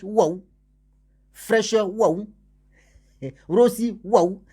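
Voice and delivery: high, loud wowed exclamations; amazed waouh. Retold or imitated. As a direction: gush over each luxury like a dazzled guest. Listing luxuries with wows.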